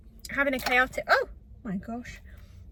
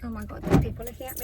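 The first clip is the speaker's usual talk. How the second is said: embarrassed; faster than usual. Real, not acted. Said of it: "I'm actually so embarrassed".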